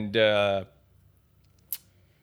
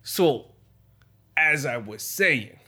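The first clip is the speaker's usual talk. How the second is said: higher, defensive mock mobster; a wiseguy waving off doubts; Italian gangster character; 5 semitones higher, 3 dB louder than usual. Gangster defending cockroaches to his host in Italian accent.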